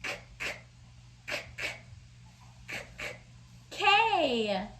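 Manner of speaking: "K" said as a breathy unvoiced k; K sound. Shown as a demonstration. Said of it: "what sound a K makes".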